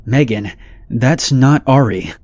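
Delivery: slow, shaky scared warning; trembling voice. Retold or imitated. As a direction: tremble as you tell her. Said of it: "I said in a trembling voice".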